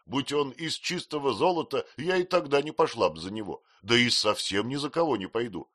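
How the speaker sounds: insist, a touch huffy; indignant housemaid. A narrator's reading. Peggotty protesting, voiced higher.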